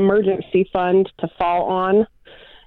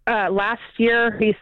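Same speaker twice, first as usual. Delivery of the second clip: breaking up on a bad phone line; words dropping out mid-call; choppy cut off endings. Real, not acted. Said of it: "I'm sorry, you cut out".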